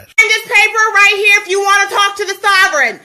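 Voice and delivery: loud, forceful orders; commanding shout. Real, not acted. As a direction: bark commands at the officers. Sovereign commanding officers during eviction.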